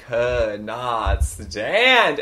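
COULD NOT STAND drawn out slowly; slow, emphatic "could not stand"; heavy emphasis. Real, not acted. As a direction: stretch each word of "could not stand". Emphasising dislike of coworker.

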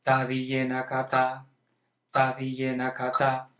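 monotone burst of five, then a held beat; quintuplet and quarter. Shown as a demonstration. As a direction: alternate quick fives with one "ta". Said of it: "Ahora estoy haciendo un cinquillo y una negra".

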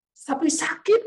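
high-pitched imitated wail; retold crying protest. Aunt protesting to the one praying for her, imitated high wail. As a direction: cry out the hurt in mock anguish. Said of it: "Dia menangis, dia teriak".

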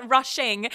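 "Rushing" said slowly and carefully, RUSH-ing. Shown as a demonstration. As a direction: spell out "Rushing" so it won't sound like Russian. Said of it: "sounds like I'm saying Russian".

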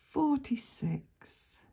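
slow, drawn-out number call; bingo caller. Acted.

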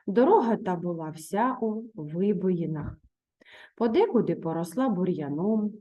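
teacher reading a fairy tale aloud to the class; story reading. A narrator's reading. Teacher reads the tale to her pupils, in a calm storytelling voice. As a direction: tell the tale evenly to young pupils.

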